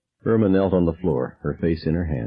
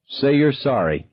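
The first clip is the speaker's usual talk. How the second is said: grim; 7 semitones higher than usual. A narrator's reading. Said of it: "Grace said grimly".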